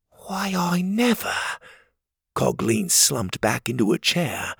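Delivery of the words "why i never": high, slow astonishment; astonished. Acted. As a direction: gasp it out in disbelief. Cogleen astonished.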